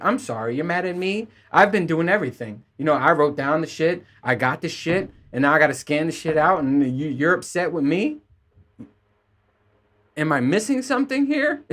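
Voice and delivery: rising sarcastic indignation; building up to a high incredulous question; indignant disbelief. Retold or imitated. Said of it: "And it's like".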